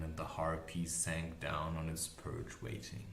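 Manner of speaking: ordinary delivery, nothing marked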